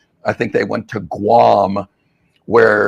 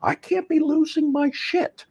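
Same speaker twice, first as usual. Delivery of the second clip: mock panic; 6 dB quieter than usual. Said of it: "I'm a mindfulness coach".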